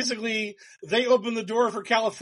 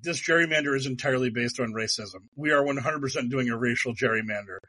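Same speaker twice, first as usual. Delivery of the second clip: lower, quick, proud mock confession; blunt Texas officials; 5 semitones lower, faster than usual. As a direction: blurt it out like dim officials. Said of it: "Texas was like".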